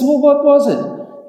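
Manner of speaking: high, slow puzzled ask; puzzled question. Acted. Bubba asking Jack what caused it, high and slow. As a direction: draw it out, baffled.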